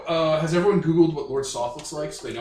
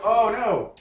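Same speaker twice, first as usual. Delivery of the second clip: tag; 7 semitones higher, 4 dB louder than usual. Acted. Sword's reaction when its owner dies.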